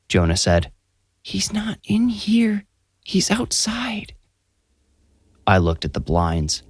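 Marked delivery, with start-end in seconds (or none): 1.2-4.1 put-on high, slow, whispered child voice; scared child whisper. A narrator's reading. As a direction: whisper it like a frightened boy. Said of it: "still whispering".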